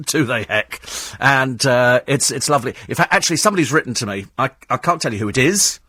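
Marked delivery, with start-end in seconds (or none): 0.0-0.8 said through a laugh; chuckling disbelief. Real, not acted. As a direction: laugh off the idea.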